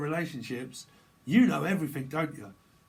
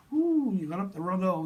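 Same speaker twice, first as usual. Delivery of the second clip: a sudden high, loud whoop; 6 semitones higher, 7 dB louder than usual. Real, not acted. Joking about a colon cleanse, a high loud whoop. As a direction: yelp it out, shocked and amused.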